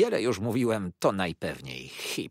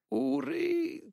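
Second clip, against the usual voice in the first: high imploring mother's voice; pleading. A narrator's reading. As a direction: beg your son to stop. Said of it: "poczęła błagająco pani Hip".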